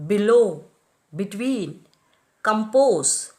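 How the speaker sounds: a-BROAD, a-CROSS, ad-MIT, stressed after the prefix; each word from abroad to prefer accented on its second syllable; weak prefix, strong root, from abroad through prefer. Shown as a demonstration. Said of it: "are accented on the root and not the prefix".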